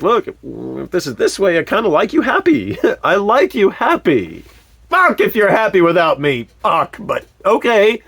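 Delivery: mock resigned laughing. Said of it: "I was like".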